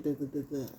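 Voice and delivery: mock stutter. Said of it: "You might stutter".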